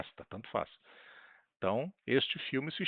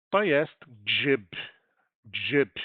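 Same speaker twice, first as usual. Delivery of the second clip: loud model reading; 6 dB louder, much slower than usual. Shown as a demonstration. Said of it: "teacher models word loudly".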